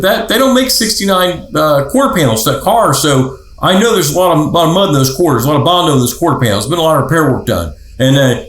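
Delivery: imitating a car buff pouring out flaws; passionate rant. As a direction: rattle off every flaw like an eager enthusiast. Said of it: "a passionate list".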